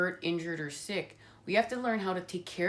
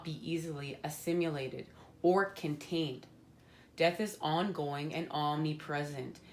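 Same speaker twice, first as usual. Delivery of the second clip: measured guidebook reading voice; reading the card's meaning aloud to viewers. Acted. Reads the Thanatos card text to viewers, solemn and measured.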